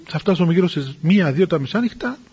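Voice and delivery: quiet, mildly worried retold musing. Abbess dreading a midnight arrival at the monastery, quietly worried. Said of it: "ανησυχούσε".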